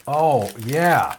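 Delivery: words round a bite; mouth full. Real, not acted. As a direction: still chewing, clearer. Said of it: "I'm eating a".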